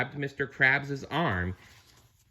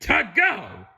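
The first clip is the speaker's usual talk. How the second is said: much higher smug villain voice; Plankton voice; 13 semitones higher than usual. Acted. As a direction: tack it on with smug glee. Plankton finishes his demand.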